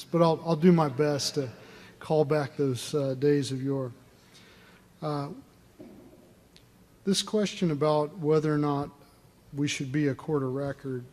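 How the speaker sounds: drill sergeant voice. Real, not acted. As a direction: project like a drill sergeant without a mic. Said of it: "use your drill sergeant voice".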